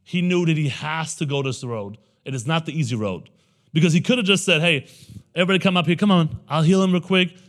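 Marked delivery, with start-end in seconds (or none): 4.6-7.3 raised, louder, breezy showman's call; upbeat crowd-rallying. Acted. Jesus imagined calling everybody up for quick healing, upbeat crowd-rallying. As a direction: wave everyone over like a celebrity healer.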